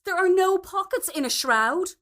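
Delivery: a loud, triumphant proverb; robust declaration. A narrator's reading. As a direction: state it like a final word on the matter. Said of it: "Alice robustly declared".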